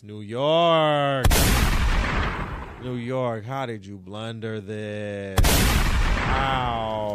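loud, slow, despairing call; loud exasperated lament at New York; exasperated yell. Acted. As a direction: yell it at the whole city, dragged out. Yelling at the Knicks.

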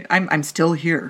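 slow, dragged-out triumphant I'm still here; slow mock survivor voice. Podcaster voicing Phil after surviving the crash, slow mock triumph. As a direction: drawl it like a battered survivor.

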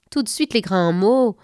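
mocking tease. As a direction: poke fun at her drama. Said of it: "se moqua la grosse souris".

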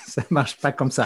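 said through a laugh. Real, not acted. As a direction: laugh while you admit it. Admitting science is messy. (en riant)

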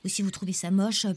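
usual speaking voice

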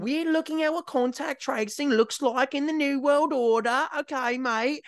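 hammed-up Aussie "mate" voice; mock Australian accent. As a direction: put on a high, matey Australian official. Mimicking official in Australian accent.

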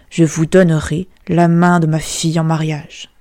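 a hint of royal decree; lightly voiced king. King granting his daughter to the fiddler, lightly voiced. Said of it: "déclara le roi".

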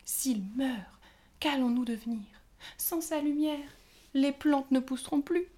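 high fairy voice building from worried to loud lament; rising despair. A narrator's reading. Pâquerette pleads to her sisters, rising to a loud despairing cry. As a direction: panic growing line by line.

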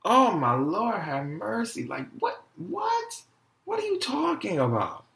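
hammed-up shock rising to a high "what"; mock astonishment. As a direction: imitate someone floored by the news. Mimics others' shock at his name.

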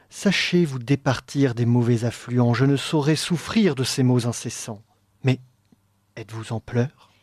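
poem recitation. Acted. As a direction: recite it like a stage role. Reads the poetic dialogue aloud.

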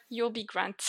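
lightly French-accented "You'll be grand". Shown as a demonstration. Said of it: "Can you say it with the French accent?".

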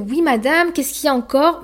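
a put-upon tone; annoyed midwife. Retold or imitated. Night midwife annoyed at another call, irritated. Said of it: "sur un ton agacé".

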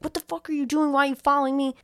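mock outrage at being tailed; retold angry confrontation. Man confronting his follower in the parking garage, mock indignant.

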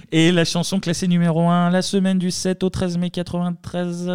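radio chart announcer. Pretend.

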